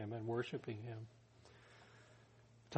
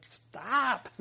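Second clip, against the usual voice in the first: shout; 12 semitones higher, 7 dB louder than usual. Retold or imitated. Apostles stopping a sacrifice.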